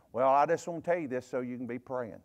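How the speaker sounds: a lightly mocking Southern sweet-talk tone; Southern gossip voice. Preacher mimics a Southern gossip's pious excuse, mildly mocking. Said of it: "we like to say it like this".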